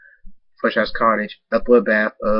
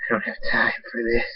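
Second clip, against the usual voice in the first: bored whisper; 4 dB quieter than usual. Acted. Villain bored, yawning.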